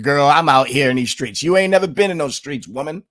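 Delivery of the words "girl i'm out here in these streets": louder mock street-slang voice, sassy 'girl'; mock her put-on street talk with a sneer; imitating Kamala Harris. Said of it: "this fake jive talk that you hear Kamala Harris talking".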